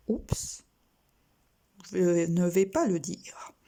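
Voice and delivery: whisper. Real, not acted. Teacher stops herself.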